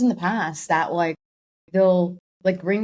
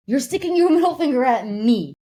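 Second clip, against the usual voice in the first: mock outraged retort; 2 semitones higher than usual. Acted retort to rude driver.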